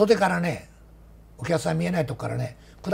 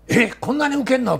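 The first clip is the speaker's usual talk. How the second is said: high, louder amazed thought; surprised inner thought, voiced high; 9 semitones higher, 5 dB louder than usual. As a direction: blurt out the disbelief. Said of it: "と思った".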